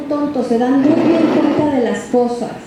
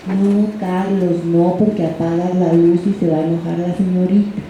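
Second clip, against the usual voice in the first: soft tender mother; 5 semitones lower than usual. Retold or imitated. Mother gently telling Carlos to leave the switch, soft and tender. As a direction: coax him softly like a patient mom. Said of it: "La voz de mamá era suave, tierna".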